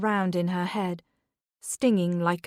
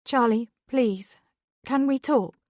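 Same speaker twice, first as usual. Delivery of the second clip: pleading; 5 semitones higher, 3 dB louder than usual. Acted. Beth pleading on the phone.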